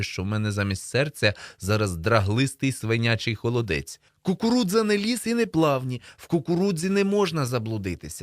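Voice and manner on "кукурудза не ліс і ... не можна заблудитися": high, insistent protest; alarmed denial. A narrator's reading. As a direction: insist against a rising panic. Frightened boy denies being lost.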